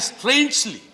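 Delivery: "strangely" stressed and set apart by pauses; emphasis on strangely. Real, not acted. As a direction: lean on the word "strangely". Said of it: "I would emphasize the word strangely".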